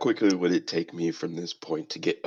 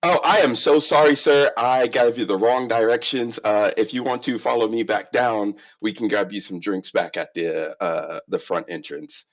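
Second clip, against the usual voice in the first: flustered apology; 3 semitones higher than usual. Acted. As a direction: rush in apologising too eagerly. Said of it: "Milo walks up".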